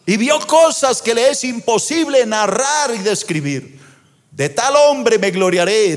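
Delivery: high, ringing preacher delivery; impassioned preaching. Acted. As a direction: preach it with rising force, drawing out key words. Preaches at full force.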